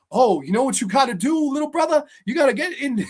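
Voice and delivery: lightly mocked movie dialogue; Michael B. Jordan. Critic replaying an earlier scene, lightly put-on brotherly advice voice. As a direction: imitate a big brother giving advice. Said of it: "an earlier scene where Michael B. Jordan's".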